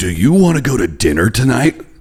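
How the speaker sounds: blockbuster movie trailer announcer voiceover delivery. Retelling how he talked around a voice producer, in a movie trailer guy voice. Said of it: "talking like the trailer guy".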